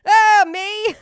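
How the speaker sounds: very high, loud startled squeal; mock surprise. On a late call with Bob, fake surprised squeal. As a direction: feign delight at being asked. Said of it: "Hi, Bob".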